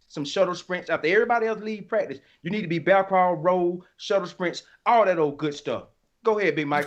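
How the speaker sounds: usual speaking voice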